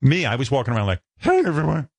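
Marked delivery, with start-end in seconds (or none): 1.2-1.9 put-on young wannabe DJ. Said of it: "I don't know what kind of voice I had".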